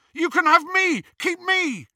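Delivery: high, desperate pleading shout. A narrator's reading. Ron offering himself in Hermione's place, desperate shouting. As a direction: beg loudly, pitched right up. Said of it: "shouted Ron".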